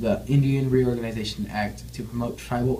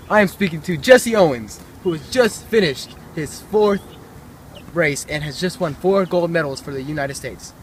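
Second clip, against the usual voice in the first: higher, louder, eager field reporter; excited reporter; 5 semitones higher, 4 dB louder than usual. Acted. Reporter at the Olympics interviewing Owens, excited.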